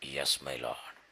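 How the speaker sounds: low, soft yes; humble reply. Acted. Moses humbly accepting God's call, low and soft. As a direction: answer quietly, surrendered.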